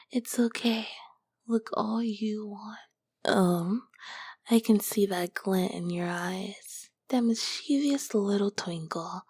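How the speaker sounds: seductive ancient demoness, whispered close to the ear; a sultry succubus whispering to her summoner; whispering succubus queen. Acted. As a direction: tease the mortal in a hushed, knowing whisper. Whispered succubus roleplay throughout.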